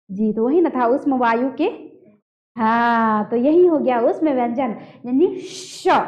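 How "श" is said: "श" led by audible rubbing air; sh with friction. Shown as a demonstration. Teacher pointing out the friction, hushing "श". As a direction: push a long hush into "श". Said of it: "घर्षण हो रही है ना".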